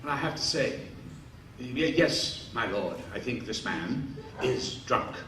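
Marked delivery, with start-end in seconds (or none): 1.6-5.2 low, soft, obsequious yes; fawning reply. Acted. Caligula agreeing with the emperor, soft and fawning. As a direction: cringe before your master.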